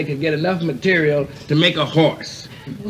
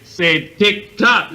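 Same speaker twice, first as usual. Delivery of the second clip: very slow, singsong tick tock; drawn-out mock clock; 4 semitones higher, 4 dB louder, much slower than usual. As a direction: stretch out each tick and tock. Drunk mimics clock sound.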